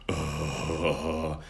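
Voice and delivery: creaky, pushed-down "uh"; forced-down "uh". Shown as a demonstration. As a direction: shove the "uh" down into the throat. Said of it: "don't wanna forcefully move the sound down".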